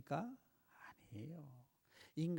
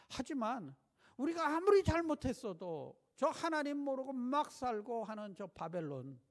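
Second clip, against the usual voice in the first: higher and louder, crying out to God in protest; pleading prophet; 5 semitones higher, 5 dB louder than usual. Acted. Prophet Habakkuk protesting to God, higher and louder pleading. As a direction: argue with God like a prophet near tears. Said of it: "하나님 앞에 울면서 따집니다".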